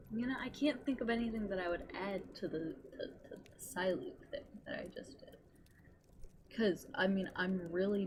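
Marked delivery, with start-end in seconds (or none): 2.6-5.4 whisper. Real, not acted. Trailing off mid-thought.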